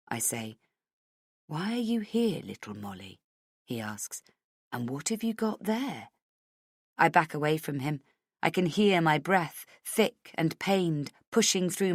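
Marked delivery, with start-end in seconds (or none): 1.5-6.1 quieter, silky taunting; Hennessy taunting the trapped heroine; soft taunting villain. Acted. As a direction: tease her like prey.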